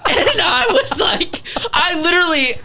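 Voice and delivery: high, loud outraged retelling. Retold or imitated. Retelling the nurse story, high and outraged. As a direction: shoot up in disbelief.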